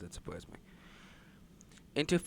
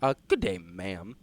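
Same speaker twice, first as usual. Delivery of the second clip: cowboy voice; 3 semitones lower than usual. Acted. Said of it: "something they'd say".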